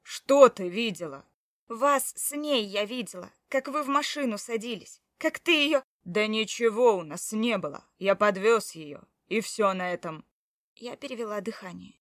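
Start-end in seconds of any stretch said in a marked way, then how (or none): 0.0-1.2 loud, slow, demanding; loud challenge. Acted. Husband challenging his wife, loud and slow. Husband snaps back in quarrel. 1.7-5.8 louder, rising higher to the end; angry accusation. Acted. Wife telling him what she saw, angry and rising. 6.0-10.2 loud denial. Acted. Husband denying cheating to his wife, loud and firm.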